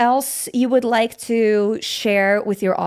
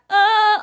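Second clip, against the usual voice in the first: demo of trapped sound; 8 semitones higher than usual. Shown as a demonstration. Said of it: "that kind of sound".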